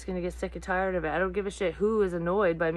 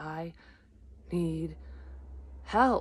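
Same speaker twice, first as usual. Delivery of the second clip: imitated breathless, slow voice; 4 dB quieter than usual. Retelling calling for help unable to breathe: retelling a slow breathless plea. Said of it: "I kept saying it really slow 'cause I couldn't breathe".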